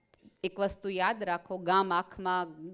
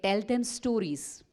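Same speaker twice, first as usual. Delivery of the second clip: slow deliberate quote; much slower than usual. Retold or imitated. Einstein's answer, slow and deliberate.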